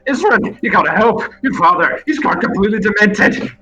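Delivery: high, urgent plea for help; panicked wizard leader. Acted. Fleeing wizard begging Isran for help, panicked. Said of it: "who appears like this leader".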